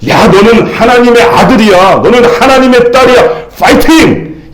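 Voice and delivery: demonstrated morning affirmation, rising in pitch; mirror pep talk. Shown as a demonstration. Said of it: "이렇게 외치고 하루를 시작하라는 거죠".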